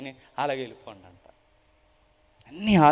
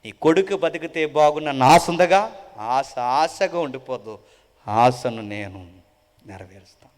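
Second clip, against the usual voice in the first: tender promise spoken gently and slowly; comforting words; 4 semitones lower, 4 dB louder than usual. Retold or imitated. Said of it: "ఒక మాట అన్నాడట".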